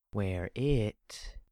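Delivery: a hint of a whisper from down the hall. A narrator's reading. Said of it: "a voice whispered down the hallway".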